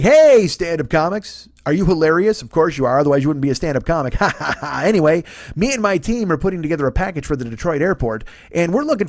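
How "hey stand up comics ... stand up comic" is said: mock sales pitch. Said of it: "he's like".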